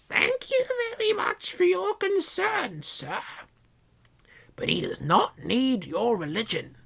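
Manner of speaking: very high, saccharine aunt voice; sweet, slow polite refusal; sickly sweet. Acted. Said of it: "her voice was sickly sweet".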